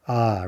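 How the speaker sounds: "ah" as an unstressed open vowel; ah, the reduced o. Shown as a demonstration. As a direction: say the reduced o as a short ah. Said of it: "It reduces to ah".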